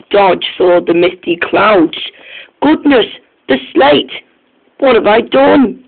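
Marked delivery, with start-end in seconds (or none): 2.6-5.8 high, alarmed cry of realisation; suddenly grasping what went wrong; dismayed. Acted. Dodge seeing the misty clouds, crying out in high alarm. Engine realises his mistake.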